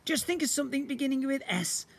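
booming slime creature. Acted. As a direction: play the magical blob, grand and eager. Slime voice listing.

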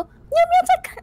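yelling up. Acted. Traveler yells up at the ignoring giant. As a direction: holler up at the giant.

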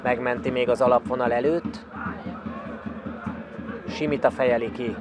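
usual speaking voice

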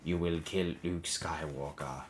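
slow, deliberate voice in the head; drawn-out, insistent mental command; commanding inner voice. A narrator's reading. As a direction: intone it slowly as a haunting command. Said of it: "the voice in the back of her mind".

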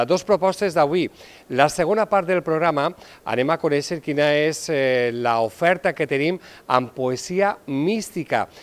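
lively, emphatic magazine-show presenting; TV presenter. Acted. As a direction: present it to viewers with measured emphasis. TV presenter's intro and voice-over.

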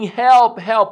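mild acted shout for help. Storyteller voices stranded man shouting for help, mild mock shout. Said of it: "He kept shouting".

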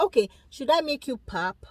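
soft, caring offer of help; a husband gently asking his stressed wife how to help; gentle coaxing husband. Retold or imitated. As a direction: coax her kindly, like a supportive husband. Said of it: "just be like".

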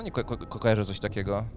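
normal talking voice

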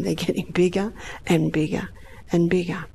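hushed whisper, unvoiced; whispered growing alarm. Real, not acted. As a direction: breathe it out in a whisper. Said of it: "whispered aside".

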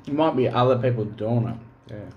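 talking between bites; chewing while talking. Real, not acted. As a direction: mouth partly full. Seen 0: Dips food in gravy, eats at -1.0, talks while chewing after.

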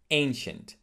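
ANCIENT opening with a long A; correct ancient. Shown as a demonstration. Teacher modelling ancient for learners, long A. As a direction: say "ancient" as "AIN-shent". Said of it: "Put it on the first syllable".

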